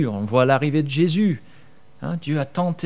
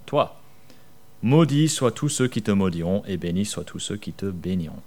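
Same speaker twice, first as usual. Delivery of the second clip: Bible story reading. Acted. Preacher reading Genesis to the church, storytelling voice. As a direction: tell the old story to the congregation.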